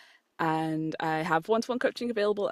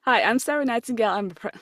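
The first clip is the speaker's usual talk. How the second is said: outro read; 5 semitones higher, 4 dB louder than usual. Shown as a demonstration. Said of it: "Uh, okay".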